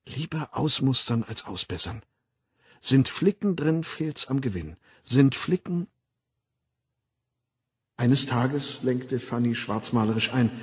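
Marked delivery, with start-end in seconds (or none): 0.1-5.9 hypnopaedic slogan. Acted. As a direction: recite it like a recorded jingle. Eingeflüsterte Schlafschul-Parole. (leise, eingetrichterte Parole)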